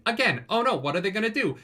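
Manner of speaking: high, urgent oh-no; hammed-up alarm at the monster; mock panic. Retelling the chasm fiend attack in mock panic.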